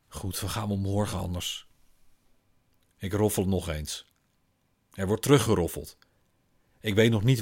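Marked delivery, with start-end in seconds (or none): 0.1-1.7 resigned sigh. Acted. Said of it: "Ze zucht".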